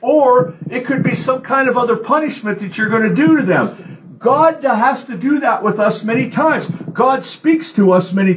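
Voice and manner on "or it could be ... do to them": a mother losing patience, warning of punishment; stern mother. Retold or imitated. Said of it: "she's like".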